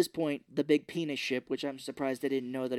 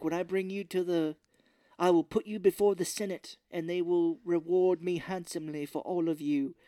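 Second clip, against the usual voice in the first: raised, theatrical villain speech; lightly put-on grand announcement; mock pompous villain; 4 semitones higher than usual. Villain promising captives to the Senate, mock pompous.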